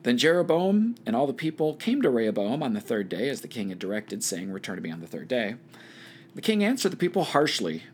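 measured Bible read-aloud with lifted phrase openings; scripture reading. A narrator's reading. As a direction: read the passage aloud to a study group. Reads Bible passage aloud.

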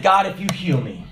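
lightly imitated Russian accent; a hint of Russian in the voice. Sick Russian man praying to the Lord, light Russian accent. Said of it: "he said in his Russian accent".

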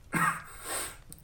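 acted hacking cough of an invalid; sickly cough. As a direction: cough as if gravely ill. Sick man coughs.

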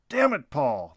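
father yelling at his youngest son; angry yell. Acted. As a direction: bite off the name in anger. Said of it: "the father yelled".

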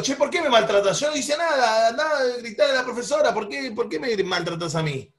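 mildly aggrieved complaint, acting it out; mock indignation, falling off at the end; acted indignant protest. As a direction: play a wronged friend pushing back. Acted protest to a nervous friend.

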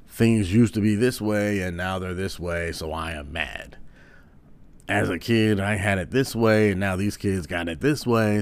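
put-on a mild grumpy old man griping about the kids; lightly voiced old-timer complaining, not far from his own voice; angry old man voice. Shown as a demonstration. Comedian shows the standard angry old man voice, a mild grouch. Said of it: "That is just the voice".

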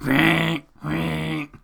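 squeezed-bellows squeak; imitated raccoon wheeze. Man imitating a raccoon squeezed like bellows, squeaky wheeze. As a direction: make a short squeaky honk, twice. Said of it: "to make him go".

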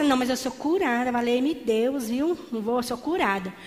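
mild mock of a passive believer saying "eu sou curada"; half-hearted faith. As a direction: say "eu sou curada" lazily with no conviction behind it. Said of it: "Se eu ficasse assim".

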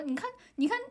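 high, fast hammed-up Beijing; exaggerated Beijing erhua, fast; Beijing accent. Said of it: "我说：".

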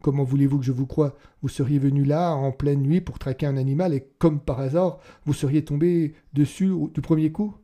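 a policeman cutting a suspect short, indignant; sharp interruption. Acted. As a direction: bite off each phrase in outrage. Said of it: "coupa net le policier".

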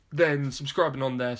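burp through the words; words pushed out on a beer burp. Real, not acted. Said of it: "Sorry, that was a beer burp right there".

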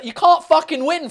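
loud, high-pitched exasperation; exasperated outburst. Real, not acted. Ranting at France about accent mockery, exasperated. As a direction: burst out in frustration.

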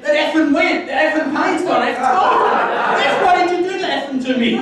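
loud, very high, hammed-up disbelief; astonished outburst. Healed man to preacher, astonished high shouting. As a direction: shout it in mock amazement, pitch shooting up.

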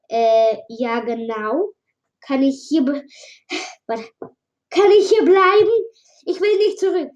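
a nervous stranger rushing out his apology; lightly voiced frantic newcomer pleading to be heard; Mike's voice. Voices Mike, pleading to stay.

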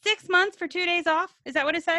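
high, disbelieving question; incredulous. Real, not acted. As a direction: sound stunned by the terms. Shocked at contract terms.

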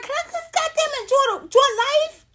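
high, strained complaint ending in a cry; exasperated plea. Retold or imitated. Comic begs starers to let her enjoy life, exasperated. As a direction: beg to be left alone, voice cracking up high. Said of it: "I'm like".

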